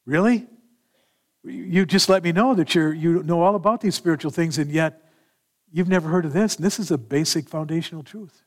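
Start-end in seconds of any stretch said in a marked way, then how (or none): 0.0-6.5 amused teasing. Retold or imitated. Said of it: "And I would do it like that".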